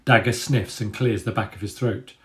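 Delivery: steady, vivid storytelling voice; story narration. A narrator's reading. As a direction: read the chapter to the listeners. Reads chapter narration.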